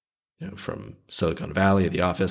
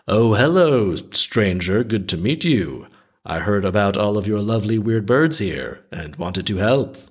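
over the top. Retold or imitated. Death pretending to meet Thomas, hammed-up fake innocence. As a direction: overplay not knowing him. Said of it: "real over the top".

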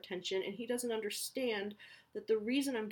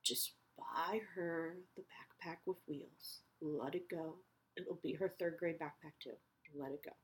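calming herself; 7 dB quieter than usual. Retold or imitated. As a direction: talk yourself down gently. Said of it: "And then I was like".

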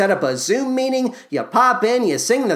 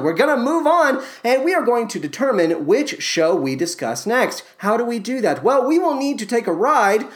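ordinary talk, nothing marked

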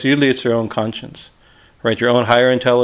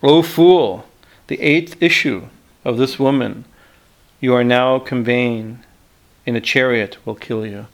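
ethereal voice; slower than usual. Acted. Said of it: "hear an ethereal voice declaring".

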